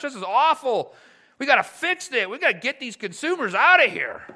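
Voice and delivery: lightly voiced scornful complainer, building to loud horror; sneer, then swell into mock outrage; a hint of a self-righteous grumble; mock judgmental churchgoer. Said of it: "my sin temptation is to be mean".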